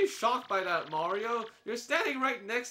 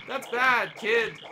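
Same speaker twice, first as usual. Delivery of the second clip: put-on louder, stern reproach to a kid; mock scolding; 4 dB louder than usual. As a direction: wag a finger at the naughty kid. Scolding a game child.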